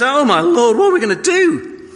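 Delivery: high, loud frightened cry; panicked cry. Retold or imitated. Servant crying out to Elisha in panic.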